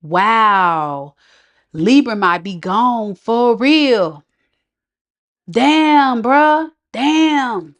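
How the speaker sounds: rueful "Damn, bruh"; mock realization. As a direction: voice the ex realizing the loss. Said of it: "the introspection is about".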